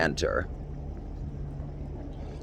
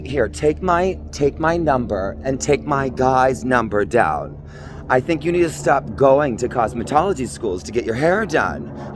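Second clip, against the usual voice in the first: catty insults; 3 semitones higher than usual. Acted. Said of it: "I'm this uptight Beverly Hills Queenie bitch".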